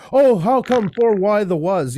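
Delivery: high, startled jumble; a "Boo!" then a high, slow scrambled outburst; flustered foreign speaker. Retold or imitated. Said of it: "starts saying words with no connection".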